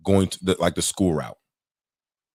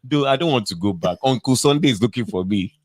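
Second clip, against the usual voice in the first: higher-pitched comic plea; mock begging; 5 semitones higher than usual. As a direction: imitate a man pleading on his knees. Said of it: "he's begging".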